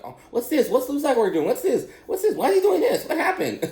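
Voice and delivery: very high, squeaky mock girlfriend; questioning girlfriend. Clueless girlfriend talking over Star Wars, high mocking imitation. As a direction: mimic a stream of pestering questions up high. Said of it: "But she was just talking".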